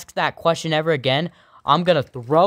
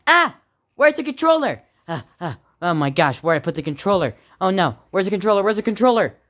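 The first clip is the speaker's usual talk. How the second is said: put-on panicked kid; 4 semitones higher, faster than usual. Kid panics over lost controller.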